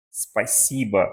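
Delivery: spasiba with stress on si, the O said as A; plain clear spasiba; Russian spasiba. Shown as a demonstration. Teacher sums up spasiba for students, clear demo. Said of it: "nós pronunciamos".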